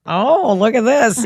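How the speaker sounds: high, drawn-out "look at this"; playful showing-off. Acted. Telling how she reacted to Nikki on walking in, playful showing-off. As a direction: stretch it out like a mock marvel. Mock reaction to onlookers in story.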